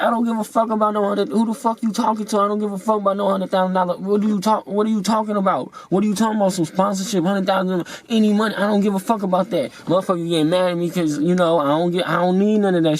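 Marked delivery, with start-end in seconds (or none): 0.0-9.7 dismissive retort. Retold or imitated. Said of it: "I'm like".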